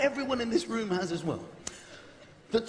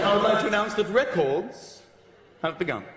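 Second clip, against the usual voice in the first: formal announcement; 3 semitones lower than usual. Retold or imitated. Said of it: "somebody said".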